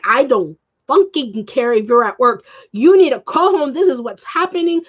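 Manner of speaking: mildly acted exasperated demand; retold insistence. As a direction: lightly mimic laying down the law. Retold insisting to cousin's sister.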